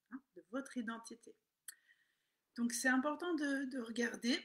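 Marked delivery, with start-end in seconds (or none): 2.6-4.4 cracking, slipping voice. Real, not acted. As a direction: voice breaks on important. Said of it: "J'ai la voix qui déraille".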